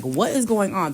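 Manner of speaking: acted-out bewildered outcry; incredulous sailors. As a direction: demand it in mock alarm. Sailors alarmed by the storm.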